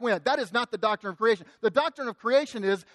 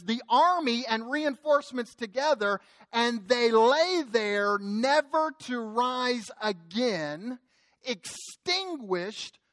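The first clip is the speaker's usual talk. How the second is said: scripture reading; much slower than usual. Acted. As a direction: let the verse sink, slowing toward the close.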